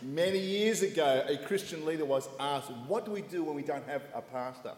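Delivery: slightly slowed, measured telling. Real, not acted. Preacher slowing down for his interpreter Lawrence, deliberately measured. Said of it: "I'll say it very slowly".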